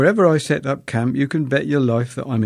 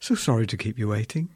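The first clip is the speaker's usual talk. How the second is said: sweetly; 4 dB quieter than usual. Retold or imitated. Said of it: "smiled sweetly and said".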